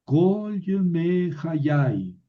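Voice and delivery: Kol said slowly with a clear O sound; teacher spelling out Kol Yemei Hayai syllable by syllable; slow model reading of Kol Yemei Hayai for students; careful slow reading. Shown as a demonstration. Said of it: "la Kamet se convierte en Kamet Hatuf y suena O".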